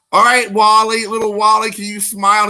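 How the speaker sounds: coaxing photographer. Retold or imitated. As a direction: call out brightly to get the kid to smile. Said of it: "Just like".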